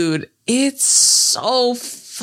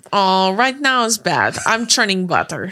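put-on Russian accent. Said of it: "when she talks to the Russian lady".

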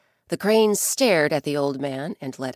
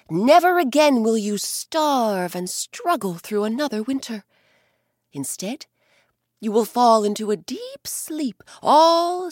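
louder, higher grand god voice; grand sky god; 3 semitones higher, 4 dB louder than usual. Acted. Ukko rewarding the kind bear, louder and grand. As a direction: bestow the gift with majesty.

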